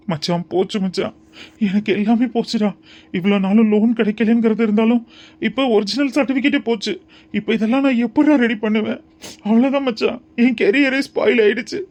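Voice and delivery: acted despairing wail, kept fairly contained; tearful lamenting. Man tells his friend his career is gone, tearfully lamenting. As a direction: lament like someone close to tears. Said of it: "பைத்தியம் மாதிரி புலம்பி அழுதுட்டு இருக்க".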